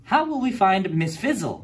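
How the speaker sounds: put-on high, questioning girl's voice; student wondering where the teacher went; worried student. A narrator's reading. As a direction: ask it with a little concern. Phoebe asks, narrator voicing her.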